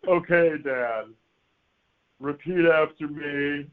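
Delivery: slow, measured teacher imitation; patient teacher. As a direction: prompt the student very slowly. Teacher patiently prompting stoned student.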